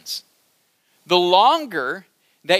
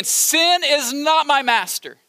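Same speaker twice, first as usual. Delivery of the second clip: slow and deliberate, each word weighed; slow, emphatic repeat; 5 semitones higher, slower than usual. Shown as a demonstration. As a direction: drive it home slowly. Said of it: "So say it again".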